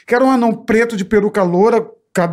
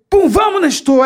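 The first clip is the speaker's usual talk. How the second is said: excited call; 7 semitones higher, slower than usual. Retold or imitated. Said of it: "Aí falei".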